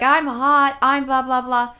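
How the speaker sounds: loud, high imitation of a yelled complaint; mock screaming. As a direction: mimic a loud, ranting complaint. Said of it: "screaming at me".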